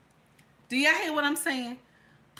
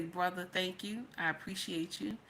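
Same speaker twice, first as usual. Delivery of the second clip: humble thanks; 5 semitones lower, 12 dB quieter than usual. Retold or imitated. Voices own grateful reply to stranger.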